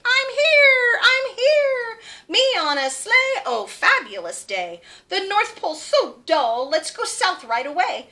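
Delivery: high, loud and thrilled; excited Ruby. Acted. Ruby thrilled to pull the sleigh, high and loud. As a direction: bounce with excitement.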